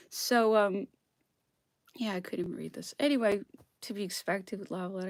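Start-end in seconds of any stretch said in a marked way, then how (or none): none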